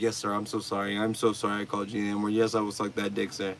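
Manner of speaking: soft, fast, mock-submissive voice; meek apology. Streamer mocking the caller as a meek submissive kid. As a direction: grovel in a small hushed mumble. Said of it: "And you're like".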